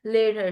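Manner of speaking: LATER with the T softened towards an R; no hard T. Shown as a demonstration. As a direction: say LATER with no crisp T, tongue folded. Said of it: "टी नहीं".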